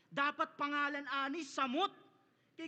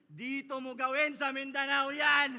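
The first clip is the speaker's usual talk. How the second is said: loud challenge; 5 dB louder than usual. Acted. Challenging opponent in battle.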